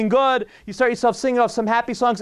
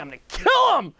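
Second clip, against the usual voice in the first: higher, half-shouted threat; mock murderous shout; 7 semitones higher than usual. Rear-ended driver fumes at the other car, shouting. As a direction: blurt the threat like a furious driver. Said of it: "and you think".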